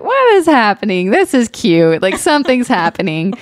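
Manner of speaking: high, giddy what-is-happening; bubbling over as the surprise unfolds; excited bewilderment. Retold or imitated. Retelling her confusion as the surprise date began, giddy and high.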